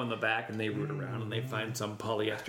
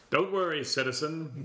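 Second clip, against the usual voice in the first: lightly voiced hero; a hint of a reassuring superhero; Superman voice. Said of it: "did he call people citizen".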